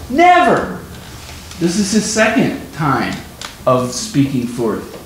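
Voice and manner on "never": one high, loud flung word; emphatic never. Retold or imitated. Peter insisting to Jesus, a high loud cry. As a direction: spit out the word in defiance. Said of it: "speaks emphatically".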